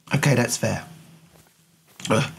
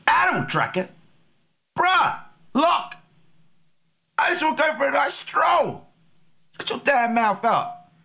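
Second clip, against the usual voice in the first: much higher-pitched indignant squeal; exasperated squawk; 13 semitones higher than usual. Acted. Streamer griping at the game's hunting guide, exasperated squawk. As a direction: squawk it in cracked-up falsetto outrage. Annoyed yelling back at the game.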